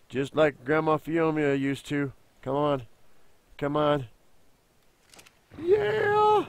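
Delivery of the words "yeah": high whoop of joy; excited cheer. Real, not acted. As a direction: celebrate the win. Cheering in game.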